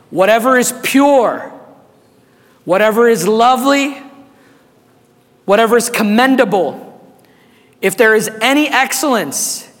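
slow, deliberate scripture reading with long pauses; read slowly. Real, not acted. Pastor reading Philippians aloud to the congregation, slow and deliberate. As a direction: let each phrase land, slowly. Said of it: "I'm gonna read it slow".

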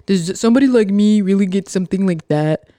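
imitating a doubtful whiner, fast; a light mock of the negative crowd; mildly whiny skeptic voice; mocking whiny pessimist. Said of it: "this is what I think they sound like in my head".

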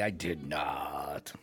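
slow, rueful whisper. Real, not acted. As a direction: breathe it out slowly. Rueful aside after intrusion.

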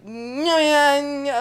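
high, loud alien chirps; alien noises. Retold or imitated. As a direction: squeal like a little alien. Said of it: "weird, like, alien noises".

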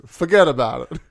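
lightly mimicked New York Italian "fuhgeddaboudit"; New York Italian accent. Quoting the wrestling commentator's first words, New York Italian accent. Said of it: "words out of his mouth is".

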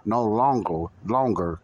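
"no longer" said firmly, then "longer" repeated; stress on "no longer". Shown as a demonstration. Preacher repeats verse for congregation to catch, emphatic. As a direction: hammer "longer" by saying it twice. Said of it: "listen closely".

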